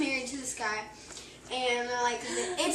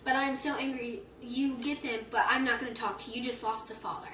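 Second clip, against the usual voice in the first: louder, clipped furious father scolding his son; furious dad; 4 dB louder than usual. Retold or imitated. Retelling a joke, dad furious at his son, angry. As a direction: let the dad's temper flare at the ungrateful son. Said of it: "his dad's just, like, furious".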